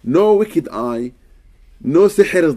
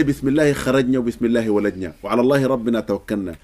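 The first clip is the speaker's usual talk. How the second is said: quick recitation; 3 semitones lower, much faster than usual. Shown as a demonstration. Reciting the door dua in Arabic.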